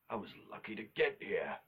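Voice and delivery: lightly put-on character voice; odd put-on voice. Vlogger joking about the apocalypse, odd put-on voice. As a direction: slip briefly into a silly unplaceable voice. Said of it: "I don't know what voice that was".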